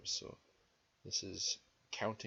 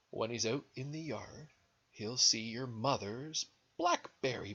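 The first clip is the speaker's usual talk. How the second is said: animated story reading with swooping pitch; lilting read-aloud; picture-book narration; 3 semitones higher, 8 dB louder than usual. A narrator's reading. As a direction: read to small children, leaning on key words. Reads picture book to children.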